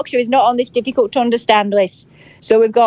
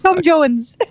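higher mock-Welsh lilt; Welsh accent; 5 semitones higher than usual. Shown as a demonstration. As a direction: Welsh accent, pitched up playfully. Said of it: "just do Welsh again".

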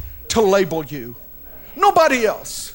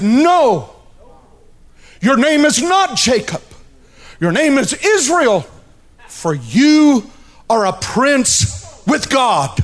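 declaring; 2 semitones higher, slower than usual. Acted. Angel declares Jacob's new name.

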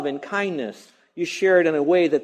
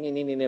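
put-on muttered kid's grumble; 5 dB quieter than usual. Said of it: "we do it under our breath".

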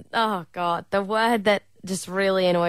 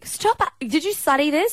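squeal; 8 semitones higher than usual. Real, not acted. Squealing at his answers.

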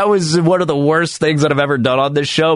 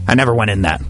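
mock slam poetry. Radio host reciting an ode to Great America, mock slam poetry. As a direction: perform a tongue-in-cheek nostalgic ode, line by line.

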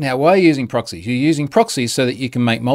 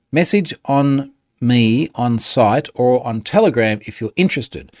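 reading aloud haltingly. Real, not acted. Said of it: "I'm gonna read it word by word".

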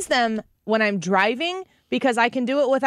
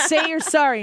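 laughing stern mom; 8 semitones higher than usual. Retold or imitated. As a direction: demand an apology while fighting a laugh. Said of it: "And I'm like".

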